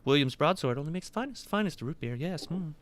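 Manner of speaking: high, creaky greedy waiter voice; creaky greedy chomping chest. Acted.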